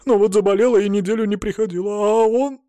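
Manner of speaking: high, fast upset pleading; tearful rush. Acted. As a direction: hurry through it near tears. Captive explains, about to cry.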